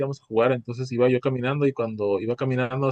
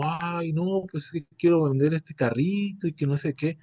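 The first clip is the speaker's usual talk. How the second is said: a hint of dad's sales act, softer; lightly acted salesman; 4 semitones higher, 3 dB quieter than usual. Son mimicking his father selling a car, lightly acted salesman. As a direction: imitate dad putting on a mild act. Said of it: "como si fuera un actor".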